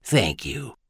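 soft, warm thanks; gently warm and hushed; smiling warmly. A narrator's reading. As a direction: thank them quietly with a smile. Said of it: "smiling warmly at him".

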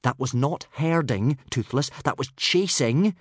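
a touch of a mild telling-off; boy mildly scolding his dragon. Acted. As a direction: correct the naughty pet firmly. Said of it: "scolded Hiccup".

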